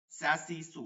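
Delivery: স্যা, সি, সু said thin with a light hiss. Shown as a demonstration. Teacher contrasting with heavy letter, thin স্যা. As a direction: keep স্যা light, not thickened. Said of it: "এটা চিকন".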